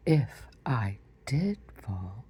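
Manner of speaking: mock-solemn pomp, drawn out; solemn and grand. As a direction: pronounce it like a grand decree. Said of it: "looked so solemn and grand".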